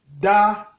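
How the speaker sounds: Da on a level middle tone. Shown as a demonstration. Teacher reading syllables, Da on mid tone. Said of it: "ton moyen".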